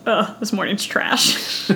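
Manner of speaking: offhand and slow, mock dismissive; casual. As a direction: toss it off casually. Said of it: "he says it so casually".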